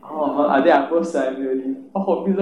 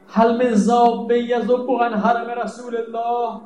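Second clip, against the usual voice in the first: raised, slow Arabic call; Imam's cry; 6 semitones higher, slower than usual. Retold or imitated. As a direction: call out slowly as the Imam. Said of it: "فریاد زد". (ندای بلند و کشیده امام)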